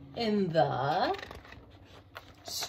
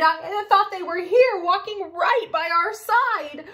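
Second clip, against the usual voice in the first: worried; 6 semitones higher, 5 dB louder than usual. Acted. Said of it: "Daddy Bear cried".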